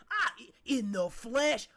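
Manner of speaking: slow, loud, chuckling answer; laughing pirate reply. Acted. Cheese pirate greeting the king, loud laughing reply. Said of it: "you hear".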